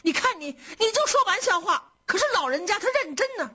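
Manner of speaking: high-pitched, playful protest; quick finish, voice pitched well up; good-humoured chiding through a smile; smiling protest. A narrator's reading. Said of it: "春燕笑着说".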